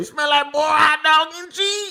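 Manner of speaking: squeaky, very high-pitched pimp voice. Told to say the pimp's phrase like him, deliver it imitating the pimp. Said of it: "You gotta say it like him".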